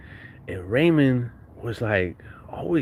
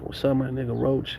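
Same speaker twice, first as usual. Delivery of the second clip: lightly imitated friend, a little soft; friend's greeting; 2 semitones higher, 4 dB quieter than usual. Friend greets his buddy on sight, lightly imitated. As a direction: greet him as your buddy would, easy and unforced. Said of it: "he's like".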